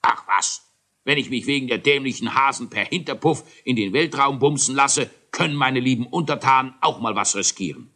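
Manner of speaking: a hint of a blustering king; lightly voiced grumpy king; mildly grumbling royal. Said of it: "König Eierbatz hingegen brummte".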